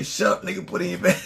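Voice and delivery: high, loud bossy snap; bossy order. Retold or imitated. Husband imitating his wife shutting him up, a loud bossy order. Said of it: "she say".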